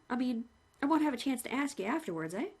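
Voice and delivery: lightly voiced chatty executioner; a hint of a friendly hangman; the hangman greeting the condemned man, cheerfully; cheery hangman. Hangman speaks.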